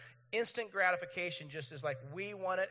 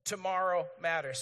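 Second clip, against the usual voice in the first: slow, firm slogans for all to repeat; loud, measured call to recite; leading group recitation; 3 dB louder, slower than usual. Real, not acted. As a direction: lead the crowd in chanting along. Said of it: "would you say these four things with me".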